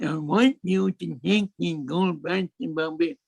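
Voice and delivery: "Bombay" blurred, consonants slurred as by a cleft palate; imitating cleft palate speech. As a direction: mimic the smuggler's cleft palate, lightly. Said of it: "this is the way he spoke".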